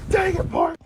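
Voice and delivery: hammed-up echo of the yell; mock shout echo. Echoing the mock outburst.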